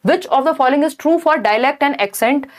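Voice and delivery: slow, deliberate reading of the question; reading question aloud. Acted. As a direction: read it out slowly for the class. Reads exam question aloud. (प्रश्न को धीरे-धीरे पढ़कर सुनाना)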